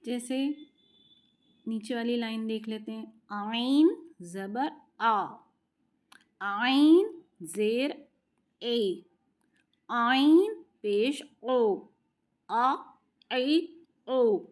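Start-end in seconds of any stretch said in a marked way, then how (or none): 3.3-14.5 आइन ज़बर आ, ज़ेर ए, पेश ओ said very slowly from the middle of the throat; slow tajweed drill of आइन vowels. Shown as a demonstration. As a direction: drag आ ए ओ slowly from mid-throat. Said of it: "थोड़ा middle गले में".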